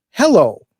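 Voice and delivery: imitated "Hello" with its second syllable drawn out; Gilbert's way of talking. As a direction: stress on the last syllable of "Hello", then falling. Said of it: "Emphasis on the last syllable".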